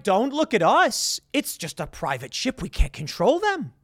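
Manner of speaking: lightly put-on disclaiming voice; mock innocent excuse. British disowning their privateers to the French, in mock innocence.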